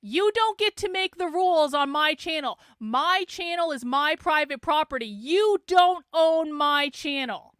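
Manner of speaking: emphatic, slowing to a loud finish; indignant assertion. Real, not acted. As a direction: put an opponent firmly in their place. Angry assertion of channel rules.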